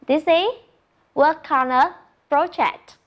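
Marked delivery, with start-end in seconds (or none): 1.1-3.0 slow model. Shown as a demonstration. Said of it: "Look at the picture and say".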